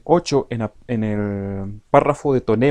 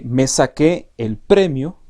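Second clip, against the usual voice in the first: slow, louder me saqué el premio, premio stressed; pretonema demo; 2 semitones higher, 5 dB louder, slower than usual. Shown as a demonstration. Teacher isolates pretonema, slow stressed premio. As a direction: stretch it slowly, weight on premio. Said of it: "es nuestro pretonema".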